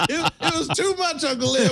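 laughing through the words; chuckling tease. Real, not acted. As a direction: tease him while laughing. Teasing friend's excitement.

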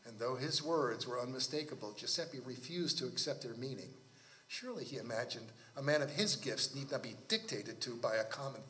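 measured literary read-aloud; story narration. Acted. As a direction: read the tale with deliberate phrasing.

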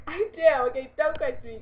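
loud defence through a laugh; real laugh under a loud retort; laughing protest. Real, not acted. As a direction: insist while laughing at yourself. Laughs at own muddled sentence.

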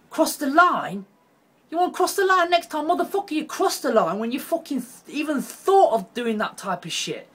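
high, loud enraged yelling; furious shout. Real, not acted. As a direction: scream it at him in outrage. Raging at the convicted singer.

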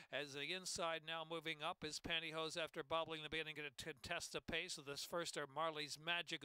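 horse-race play-by-play building to a climax; race caller. Acted. Live horse race call.

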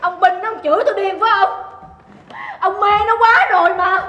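loud, high-pitched accusation; offended fury. Acted. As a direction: hurl it at your husband. Wife quarrels, offended at being called crazy.

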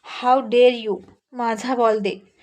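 narrated anger, firmly measured; a controlled show of indignation; angry. Acted. Girl confronting the boy who took her ball, angry. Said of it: "खूप रागात त्याला बघितलं".

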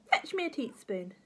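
lightly voiced imperious granny; bossy grandma. Bossy grandma giving an order.

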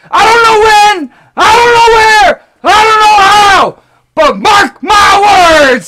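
hammed-up wrestler promo shouting; Cat Daddy promo. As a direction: cut a promo like a pro wrestler. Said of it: "scream just like the Cat Daddy".

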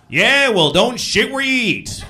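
loud, high know-it-all delivery; cliché-spouting friend. Acted. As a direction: proclaim a stock saying like wisdom. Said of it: "he's always talking in cliches".

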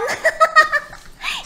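high bursting giggle. Real, not acted. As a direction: laugh out loud. Laughing while denying it.

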